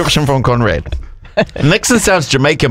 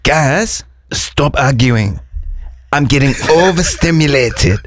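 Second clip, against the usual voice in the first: lightly put-on Swedish accent, slow; a hint of Swedish, playfully fussy. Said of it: "I work at ikea".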